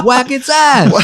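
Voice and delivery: high, loud mock command; acted yell. Man repeats his order in story.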